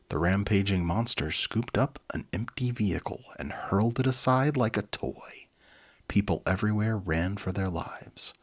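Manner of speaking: brisk dramatic read-aloud; storybook narrator; story narration. A narrator's reading. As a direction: narrate the monster attack with energy.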